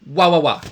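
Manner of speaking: loud pushed "wah, wah, wah"; pushed blow. Shown as a demonstration. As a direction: shove each wah out on an active blow. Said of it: "an active blow, a push".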